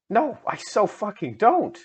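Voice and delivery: hammed-up indignant yell; shouted. A narrator's reading. Ebony denies liking Draco to her friend, mock shout. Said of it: "I shouted".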